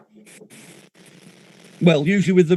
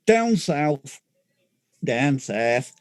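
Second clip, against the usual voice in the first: ominous drop; 6 semitones lower, much slower than usual. Acted. Mock-ominous about the south.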